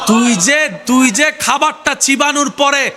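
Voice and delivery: slow, high, ringing sermon build; fervent drawn-out address; climactic preaching. Acted. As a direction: stretch it out toward a preacher's peak.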